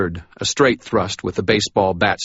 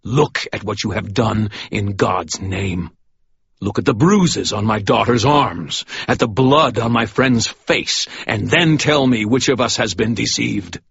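hard and merciless; 3 semitones higher than usual. Acted. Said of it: "his words hard and merciless".

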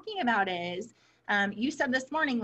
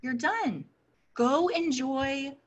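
mild reassuring quote; 2 semitones higher than usual. Retold or imitated. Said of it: "what you did for him was to say".

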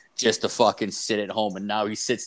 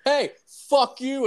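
high, slow, mocking yell of fuck you; 14 semitones higher, 4 dB louder, slower than usual. Shown as a demonstration. Kid yells at the neighbour opening the door, high mock shout. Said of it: "you just yell".

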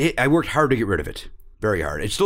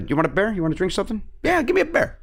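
higher, playful Chicago accent on "bear"; 7 semitones higher, faster than usual. Shown as a demonstration. Comedian shows where it pops up, Chicago accent. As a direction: act out an eager Chicago bar order. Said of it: "Then it pops up".

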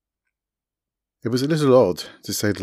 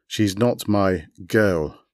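a touch of a growl, dragged out; much slower than usual. Acted. Raw denying the girl is his, a mild slow growl. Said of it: "Raw growled".

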